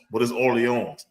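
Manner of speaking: "Orleans" as or-lee-ON; French pronunciation. Shown as a demonstration. Explaining the French name, "Orleans" said or-lee-ON. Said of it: "That shit said New Orleans".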